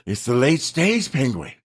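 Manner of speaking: slow mock Australian nature commentary; hammed-up Australian wildlife host, drawn out; bad Australian accent. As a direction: narrate it in a poor Australian accent. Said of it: "my worst Australian accent".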